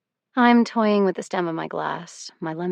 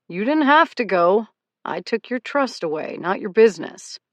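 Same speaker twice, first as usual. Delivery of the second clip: heated; 3 semitones higher, 6 dB louder than usual. A narrator's reading. Woods pushes back in argument.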